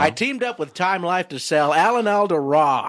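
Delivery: botched celebrity impression with a muddled accent; hard-sell pitch in a badly put-on voice; bad Alan Alda. Actor hawking his DVD, bad Alan Alda impression. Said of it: "I was trying to do my Alan Alda".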